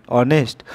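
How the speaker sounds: "অনেস্ট" begun on the vowel, h left silent. Shown as a demonstration. Teacher showing pupils how honest sounds, "অনেস্ট" with silent h. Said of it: "উচ্চারণটা কি".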